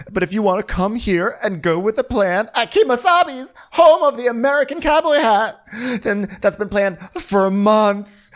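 hammed-up indignation, dropping to a curt bye; mock huffy ultimatum. Acts out offended friend's ultimatum.

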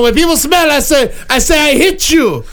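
lightly voiced dim caveman, talking about himself; a hint of a brute barbarian making threats; barbarian Croc. A host playing Croc lightly as a dumb brute, telling the panel his rule on smelly people. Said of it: "Croc is now subbing in".

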